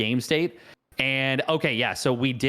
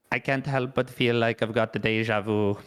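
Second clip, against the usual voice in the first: put-on, badly faked Cyril accent; hammed-up attempt at Cyril's accent. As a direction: do a clumsy impression of Cyril's accent. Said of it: "I rock the worst possible Cyril accent".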